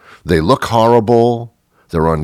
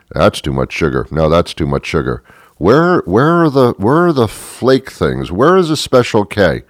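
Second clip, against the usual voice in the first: mimicking a shopper talking to herself. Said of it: "saying in a very normal conversational voice".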